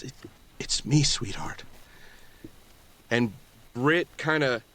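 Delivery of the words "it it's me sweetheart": the father whispers to his lost daughter. Acted. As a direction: breathe it gently to her. Father reveals himself to daughter.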